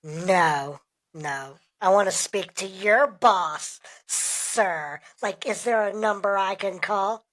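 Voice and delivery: mock-indignant, insistent demands; disgruntled customer. Customer demanding to speak to the boss, disgruntled. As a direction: play the complaining customer, pushing on. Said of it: "just like a disgruntled customer".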